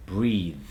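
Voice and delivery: "Breathe" ending in a held TH; tongue between teeth to end "Breathe"; final voiced TH. Shown as a demonstration. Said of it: "Get that tip of the tongue between the teeth".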